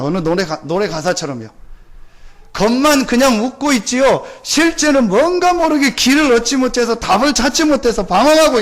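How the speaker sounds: rising and falling sermon cadence, leaning into key words; preaching. Acted. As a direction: preach it to the congregation with conviction. Preaching to congregation. (설교하는 목소리)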